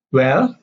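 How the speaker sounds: "Well" set apart with a rising tune; stressed WELL. Shown as a demonstration. Mother opening an interaction, stressed rising WELL. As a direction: lift "Well" as a greeting. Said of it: "well" is stress".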